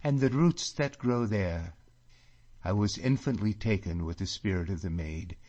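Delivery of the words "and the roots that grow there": high, loud fond voice slowing at the end; girl longing for her glens. A narrator's reading. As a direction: linger lovingly on the place. Catriona longing.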